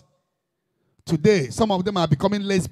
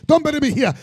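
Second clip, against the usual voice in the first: higher urgent plea; pleading Jacob; 5 semitones higher, faster than usual. Acted. Dying Jacob begs Joseph, higher urgent plea. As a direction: beg not to be buried abroad.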